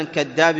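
second "كذاب" said as chaddab; kaf as ch. Shown as a demonstration. Teacher shows dialect error, chaddab for "كذاب". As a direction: turn the k of "كذاب" into ch. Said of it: "يقول كذاب".

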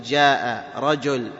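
"جاء رجل" slowly with clear j; proper jim. Shown as a demonstration. Teacher corrects the ya, slow j in "جاء رجل". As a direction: give both words of "جاء رجل" a true j. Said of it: "ما نقول ياء، نقول".

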